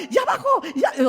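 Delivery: high, loud call that oxygen dropped; alarmed call. Retold or imitated. Wife calls the doctor about dropping oxygen, alarmed shout.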